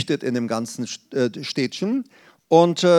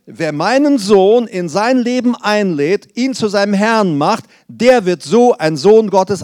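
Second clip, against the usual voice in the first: emphatic proclamation; 3 semitones higher, 5 dB louder than usual. Real, not acted. Preacher proclaims God's promise.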